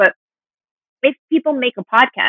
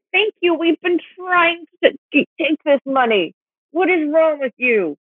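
mock exasperation; 5 semitones higher than usual. S0 voicing exasperated supporters.

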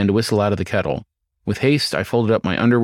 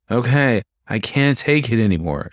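nasal whine; 2 semitones higher than usual. Acted. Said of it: "she whined".

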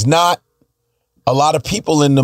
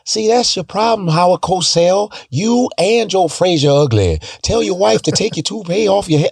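high, brash taunt; mock the announcer like Ali; Muhammad Ali impression; 5 semitones higher than usual. Child taunting Howard Cosell as Ali, high and cocky. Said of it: "I used to do that shit".

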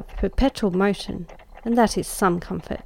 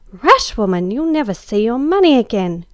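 louder alarmed warning to a friend; cried out; 2 semitones higher, 5 dB louder than usual. Acted. Em warning her friend against handing over the purse, loud cry. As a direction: call out a scandalised warning. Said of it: "cried Em".

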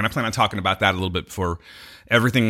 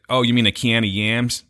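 put-on Chicago accent. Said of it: "it's like a ah thing".

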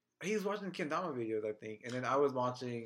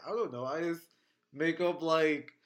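lightly voiced comic-book creator; half-hearted imitation, casually making it up; terrible Stan Lee; 5 dB louder, slower than usual. Creator explaining superpowers to a fan, lightly imitated. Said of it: "That was a terrible Stanley impression".

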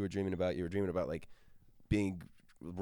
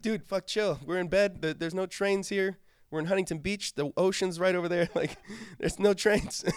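higher and louder, half-laughing calming down; calming a friend; 12 semitones higher, 5 dB louder than usual. Retold or imitated. Narrator calms sleep-talking Todd in bed, raised amused voice. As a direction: talk him down, amused and exasperated. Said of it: "And I'm like".

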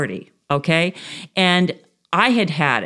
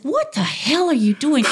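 higher, shouted what the hell; son's startled yell; 7 semitones higher than usual. Retold or imitated. Son shouting at mother chasing raccoons. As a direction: yell it at your mother in disbelief. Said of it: "my son is like".

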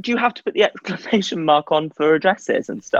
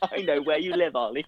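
heavy breathing phone whisper; 2 semitones lower, 8 dB quieter than usual. Pretend. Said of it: "so threatening".

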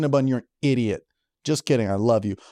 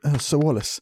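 relaxed Dracula voice. Retold or imitated. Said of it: "Dracula on a vacation".

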